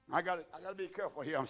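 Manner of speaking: a preacher noting he is running long; quick soft aside. Real, not acted. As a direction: mutter it to yourself, hurrying.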